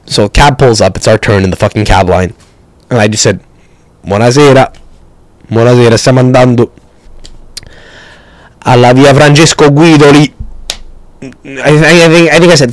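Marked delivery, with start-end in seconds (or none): 4.0-10.3 put-on Neapolitan accent. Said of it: "put on a Napolitan accent".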